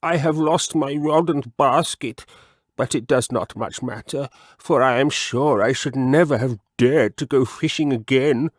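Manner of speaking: a rattled frog swearing off fishing; frog character voice. Acted. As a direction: frog relieved yet shaken. Mr Jeremy Fisher's voice.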